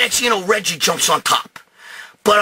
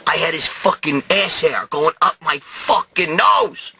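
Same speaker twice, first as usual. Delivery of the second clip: slow, emphatic outrage; indignant outburst. Retold or imitated. Man refusing to apologize argues with Paul, indignant. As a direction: punch out each curse, aggrieved.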